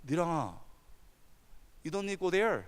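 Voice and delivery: soft, caring pastor's voice; retold quiet plea, spoken softly; gentle dissuasion. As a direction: gently talk them out of going. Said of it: "그 제가".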